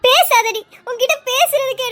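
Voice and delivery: loud, cutting shut-up; angry snap. Acted. Mother silences her apologising daughter, angry.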